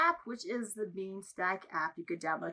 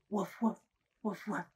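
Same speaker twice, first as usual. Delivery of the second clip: dog bark. Pretend. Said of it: "What does a puppy say?".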